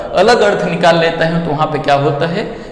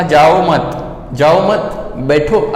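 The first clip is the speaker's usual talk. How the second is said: "जाओ मत" as a repeated unit, then "बैठो"; group जाओ with मत, break, then बैठो; pause after मत; much slower than usual. Shown as a demonstration. Teacher explains what the host said, pause after मत. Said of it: "अभी सामने वाला क्या बोल रहा है".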